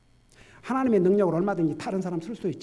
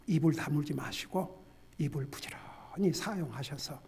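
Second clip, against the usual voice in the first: usual speaking voice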